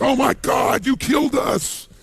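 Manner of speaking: high accusing yell of panic; mock panic yell. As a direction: yell it as if doomed, hammed up. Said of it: "the people are like".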